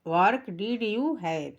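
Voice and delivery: each English word drawn out very slowly; slow pronunciation demo. Shown as a demonstration. Teacher showing pupils the pronunciation, very slow. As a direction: model every word slowly and clearly. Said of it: "इसका उच्चारण है".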